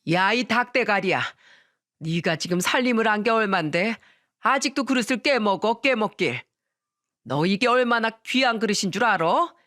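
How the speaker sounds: a hint of a scolding mother-in-law; mild mock scolding. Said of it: "큰 소리로 아내에게 호통을 치셨어요". (며느리를 꾸짖는 시어머니 흉내)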